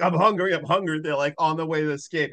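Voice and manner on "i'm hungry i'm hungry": mock whiny hungry. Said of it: "all she can say is".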